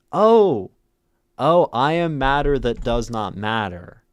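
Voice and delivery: high, loud anguished cry of the line; dramatic wail. Acted. Teacher reading the poem line to her stream as an anguished lament.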